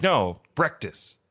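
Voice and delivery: "breakfast" garbled into "brektis"; mispronounced breakfast. Retold or imitated. Character correcting someone, mispronouncing "breakfast" as "brektis". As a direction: say "breakfast" as "brek-tiss". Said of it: "cannot say the word breakfast".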